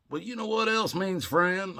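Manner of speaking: lightly voiced woman, high-pitched; imitated woman. Woman's teasing question acted.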